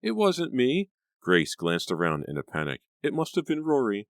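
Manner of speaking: put-on high, frightened girl's voice; panicked girl. A narrator's reading. Grace in a panic.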